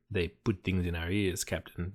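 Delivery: put-on a faint, half-hearted Russian accent; a hint of Russian accent, mostly own voice. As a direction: lightly voice a Russian cultist, barely there. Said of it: "the best Russian accent I've ever done".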